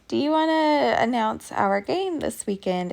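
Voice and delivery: high-pitched retold favor-asking; coaxing request. Mom asking PE teacher to announce the game, coaxing.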